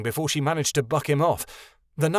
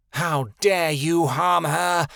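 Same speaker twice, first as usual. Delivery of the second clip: slow, venomous hiss of fury; hissed threat; 4 semitones higher, much slower than usual. A narrator's reading. Griffin to the elf who hurt her, hissing in slow rage. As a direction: spit each word slowly at the enemy. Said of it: "Ali hissed at the elf".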